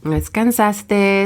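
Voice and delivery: drawn-out scold to herself; scolding inner voice. Retold or imitated. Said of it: "a way of reminding me".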